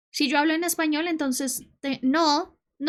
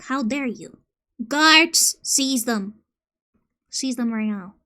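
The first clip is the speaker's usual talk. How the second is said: roaring tyrant king; 4 dB louder, slower than usual. Pretend. Playing a king ordering guards.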